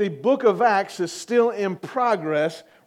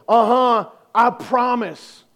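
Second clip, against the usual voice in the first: childish mock insistence, a bit louder; insistent kid; 3 semitones higher, 4 dB louder, slower than usual. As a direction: play a kid swearing it's true. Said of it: "And you go".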